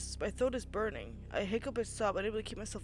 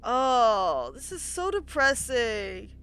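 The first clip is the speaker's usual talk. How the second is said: sad lament; 3 semitones higher, 8 dB louder, much slower than usual. Real, not acted. Reacting to sad scene.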